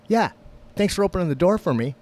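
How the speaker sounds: high, loud, quick mock gratitude; pointed sarcastic insistence; sarcastic thanks. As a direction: repeat the jab as an imitated irate stranger. Woman repeats sarcastic complaint.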